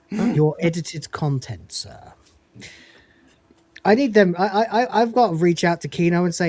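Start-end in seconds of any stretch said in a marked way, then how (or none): 0.1-2.1 butler voice. Retold or imitated. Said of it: "Just do the Butler voice".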